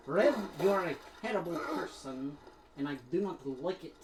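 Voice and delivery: mock scolding in a wobbly Scottish accent; slipping Scottish accent. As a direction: playfully grumble as your Scottish accent slips toward Russian. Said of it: "now you're making me go Russian".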